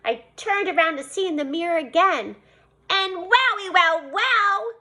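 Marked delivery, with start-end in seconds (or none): 2.9-4.7 amazed. A narrator's reading. Amazed exclamation, slow and high.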